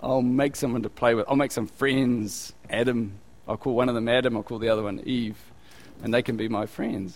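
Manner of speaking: mock lonely God. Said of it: "And he goes".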